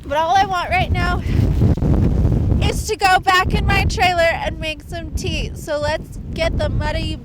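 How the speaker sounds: shivering cold, slowed words; drenched and cold. Real, not acted. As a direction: wet and freezing. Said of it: "not be so freaking cold".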